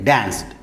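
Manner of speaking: డాన్స్డ్ with no vowel before the final d; single syllable. Shown as a demonstration. Teacher showing correct pronunciation, one syllable. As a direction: say డాన్స్డ్ in one falling beat. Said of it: "డాన్స్, అంతే".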